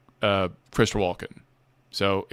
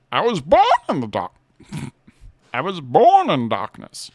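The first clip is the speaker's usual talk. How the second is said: Bane impression; 5 semitones higher, 3 dB louder than usual. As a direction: intone it darkly and deliberately. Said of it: "I love Bane's cadence".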